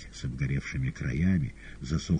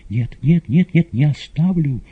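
pleading refusal, higher and louder; горячий отказ; 12 semitones higher, 10 dB louder than usual. Acted. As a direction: cry out no, refusing to leave. Маргарита отказывается оставить мастера. (горячо, громко умоляя)

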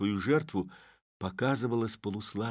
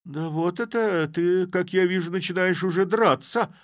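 disguised voice, indignant; 11 semitones higher, 6 dB louder than usual. A narrator's reading. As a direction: protest while backing away. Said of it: "произнёс он, немного отступая".

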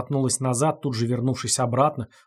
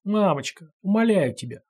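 desperate pleading; 6 semitones higher than usual. Acted. Fox-woman pleading desperately.

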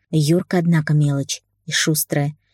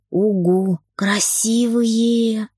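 put-on delighted child; 5 semitones higher, much slower than usual. A narrator's reading.

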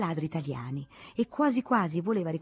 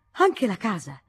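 shouted outrage; 3 semitones higher, 6 dB louder than usual. Acted. Old spinster hearing the monk bought the house, shouting. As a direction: shriek it in disbelief. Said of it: "gridò la zitellona".

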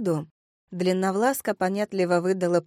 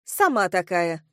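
curt, mildly angry retort; snapping back. Acted. Girl retorts to abusive woman, snapping. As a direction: throw the insult right back. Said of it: "огрызнулась Алиса".

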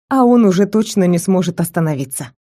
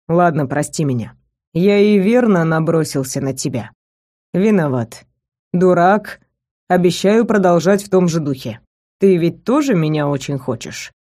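lightly lowered male voice; 2 semitones lower than usual. Acted. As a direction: apologise with a sly grin, voice dropped a little.

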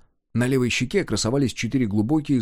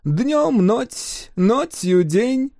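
higher, slow grumbling lisping Greek; complaining foreigner; 11 semitones higher, 3 dB louder, much slower than usual. Acted. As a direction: lament it in a foreign lisp, slowly. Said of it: "посетовал он".

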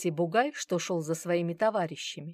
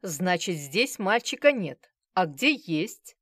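insinuating; 5 dB louder, slower than usual. Acted. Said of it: "вкратчиво спросил Базаров".

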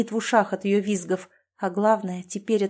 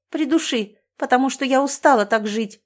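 high, loud, desperate outburst; hysterical crying out; 5 semitones higher, 5 dB louder than usual. A narrator's reading. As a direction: scream it in despair through tears. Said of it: "не унимается Оксана, продолжая истерить". (истеричный крик в слезах)

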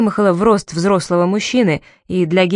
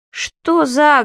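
loud; 8 semitones higher than usual. A narrator's reading. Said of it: "громко спросил Гейр".

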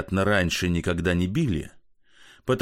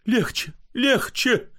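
much higher, slow pleading; 13 semitones higher, slower than usual. Acted. Pochechuev calls from another room, anxious and high. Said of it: "голос Почечуева".

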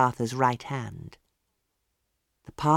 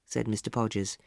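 ordinary delivery, nothing marked

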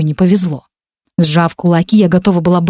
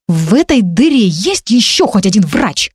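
growled demand; 2 semitones higher than usual. Acted. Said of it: "рыкнула я".

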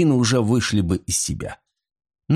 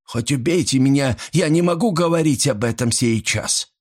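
protesting; 6 semitones higher than usual. A narrator's reading. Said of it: "запротестовала она".

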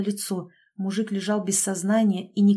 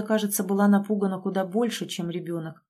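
ordinary delivery, nothing marked

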